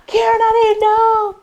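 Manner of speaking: put-on high, stunned girlish gasp of a line; shocked classmates. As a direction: play the embarrassed classmate caught out.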